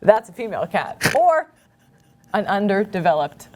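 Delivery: lightly performed, earnest deadpan reading with pauses; naive ad reading. Acted. Reading a child cats ad to the co-host, earnest deadpan delivery. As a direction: read each odd phrase as if it made perfect sense. Reads a Craigslist ad in character.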